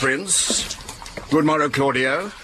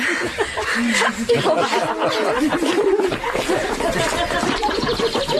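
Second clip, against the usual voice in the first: real laugh. Real, not acted. Laughs mid-scene.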